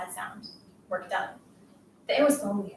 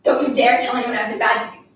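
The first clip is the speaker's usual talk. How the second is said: louder warning; stern threat; 5 dB louder than usual. Acted. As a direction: warn her off forcefully. Bully threatening her victim.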